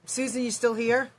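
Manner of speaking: ordinary talk, nothing marked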